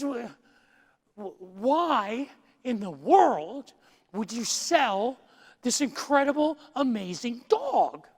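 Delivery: stammering start, then slow, drawn-out astonishment; loud, stretched-out mock amazement; acted disbelief. Man with jaw open asks the dog's owner why he'd sell, incredulous.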